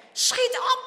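high, loud hurry-up; forceful, pressing cry; urgent call. A narrator's reading. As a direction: call out for him to move. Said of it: "roept Harme weer".

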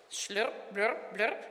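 low squelchy slurps and blurps; playful onomatopoeic bloops; squelching mud sounds. A narrator's reading. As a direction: imitate boots sucked by mud. Reader imitates sucking mud.

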